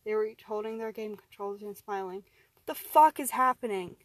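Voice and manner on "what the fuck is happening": loud, high, bewildered yell; panicked shout. Acted. Man to the captors controlling him, panicked shout.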